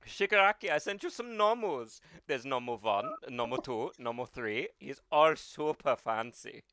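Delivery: light-voiced German boss; All for One. Villain briefing Shigaraki on Nomus, German accent. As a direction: count them off in a prissy German accent. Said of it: "light-voiced German".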